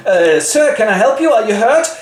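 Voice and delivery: put-on high concerned girl. Jane helps fallen rider.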